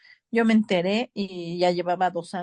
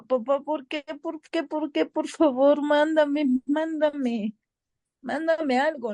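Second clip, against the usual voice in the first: pleading; 6 semitones higher than usual. Retold or imitated. Pleading to dead father.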